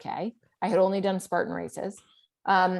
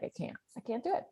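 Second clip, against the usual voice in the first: defeated; 3 semitones higher, 11 dB quieter, much faster than usual. Retold or imitated. Exhausted runner texting husband.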